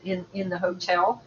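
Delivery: choppy cutting-out connection; words dropping out over a bad line; radio breaking up. Real, not acted. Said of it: "it sounds like you're breaking up".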